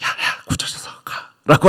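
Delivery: whispered, hushed aside.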